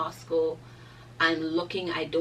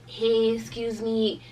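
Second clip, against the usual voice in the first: drawn-out, higher call to passing cars; 4 semitones higher, 4 dB louder, slower than usual. Retold or imitated. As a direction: try to flag someone down, slowly.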